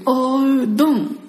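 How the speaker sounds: おうどん with どん falling, slow; Kansai-style おうどん, drawn out; Kansai pitch on おうどん. Shown as a demonstration. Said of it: "待って、もう一回". (関西のアクセントで「おうどん」)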